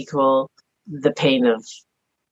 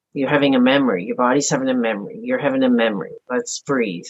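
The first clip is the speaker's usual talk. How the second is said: soothing self-talk; 3 semitones lower, faster than usual. Retold or imitated. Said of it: "I just have the dialogue right with me".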